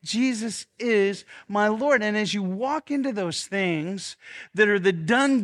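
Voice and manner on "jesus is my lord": slow, weighted creed; slow declaration. Shown as a demonstration. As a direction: pastor models the line for the room. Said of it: "Say it".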